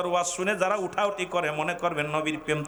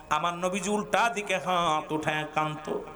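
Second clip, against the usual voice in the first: ordinary talk, nothing marked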